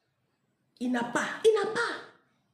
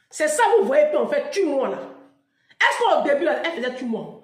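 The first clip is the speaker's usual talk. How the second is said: loud preaching; 4 semitones higher, 8 dB louder than usual. Acted. Preaching climax.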